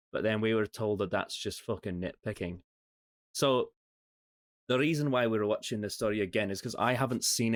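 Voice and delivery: casual chat in a mock Scottish accent; put-on Scottish accent. Podcast host opening the episode, in a mock Scottish accent. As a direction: lay on a Scottish accent, half-joking. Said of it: "Are you gonna do that really stupid accent for the whole recording".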